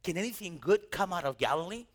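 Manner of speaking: sincere curious question; gently curious asking. Retold or imitated. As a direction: ask it honestly, not mocking. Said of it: "He was just curious".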